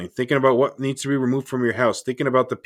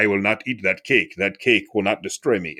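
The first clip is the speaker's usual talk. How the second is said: lightly voiced action-hero impression, a bit low; half-hearted strongman impression; bad Schwarzenegger; 4 semitones lower than usual. Podcaster mimicking a bulked-up hero refusing cake, lightly voiced bad impression. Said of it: "that was a really bad Schwarzenegger impression".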